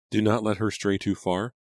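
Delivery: mother's caution. A narrator's reading.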